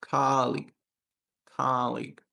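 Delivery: "Colleague" stressed on a long KA; long first, short second. Shown as a demonstration. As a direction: say "colleague" with league kept short. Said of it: "I make the ka long and then league is short".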